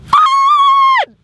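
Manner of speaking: very high, a couple octaves up. Coached by others to go up a couple octaves, say it much higher. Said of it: "up a couple octaves".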